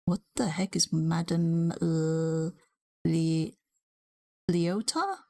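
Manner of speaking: puzzled whisper under the breath. Real, not acted. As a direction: whisper it to yourself, baffled. Reading a voice name, puzzled.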